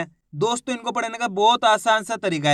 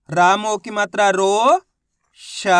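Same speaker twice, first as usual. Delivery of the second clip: "रामो की मात्रा रो" said slowly and clearly, stretching each part; slow teacher's model reading, syllable by syllable; slow spelled-out demo; 3 dB louder, slower than usual. Shown as a demonstration. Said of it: "मेरे तरीके पे गौर करना है".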